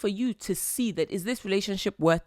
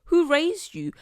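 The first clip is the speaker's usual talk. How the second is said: scolding mom. Retold or imitated. Quoting her mom scolding a rude, badly raised girl, mock-stern. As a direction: imitate mom scolding someone with no manners. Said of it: "As my mom would say".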